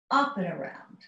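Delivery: UP leads, "and around" falls away; stress on UP. Shown as a demonstration. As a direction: lean on "Up", let the rest drop. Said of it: "emphasis is on the up".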